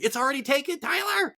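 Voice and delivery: high shrieking yell of a wife; wife yelling from the other room, mock shriek; retold scream. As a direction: shriek it like she caught you out. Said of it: "she screamed".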